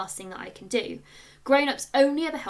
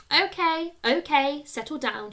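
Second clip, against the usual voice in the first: teacher calling order; 5 semitones higher, 5 dB louder than usual. A narrator's reading. Teacher calls class to order.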